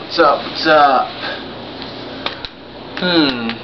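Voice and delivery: speaking through a full face mask; muffled behind a dive mask. Real, not acted. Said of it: "I'm speaking through a mask".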